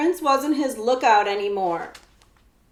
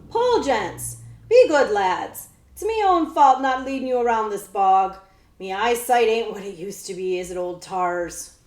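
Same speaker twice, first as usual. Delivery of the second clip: put-on old coachman; 5 dB louder than usual. Old coachman urging his horses.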